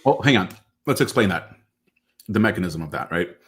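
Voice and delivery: talking around ice cubes; words slurred by ice in mouth; mouth full of ice. Real, not acted. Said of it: "I got ice in my mouth".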